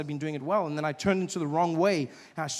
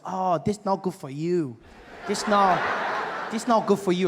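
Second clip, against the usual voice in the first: car dealer's put-on Asian accent; 2 semitones higher than usual. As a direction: imitate an Asian salesman's accented English. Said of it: "there's this Asian gentleman helping me".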